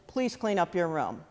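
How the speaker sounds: soft, polite request to tidy up; gentle first request. Shown as a demonstration. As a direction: ask nicely the first time. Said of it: "the first time they said".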